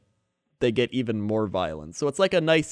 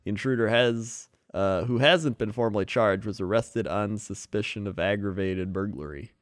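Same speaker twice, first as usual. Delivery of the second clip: news read. Acted. Reads news story.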